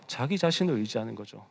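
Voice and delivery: usual speaking voice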